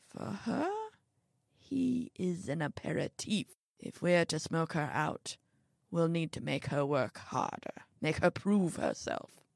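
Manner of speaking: lightly voiced old man, regaining composure; restrained elderly schemer; composed scheming old man. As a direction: plot it quietly, in measured phrases.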